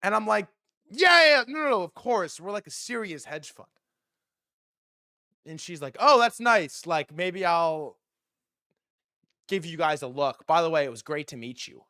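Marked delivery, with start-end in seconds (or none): 0.9-3.7 frantic reassurance. Retold or imitated. Overeager fake reassurance. 6.0-11.9 put-on light girly voice. Girl voiced brushing him off.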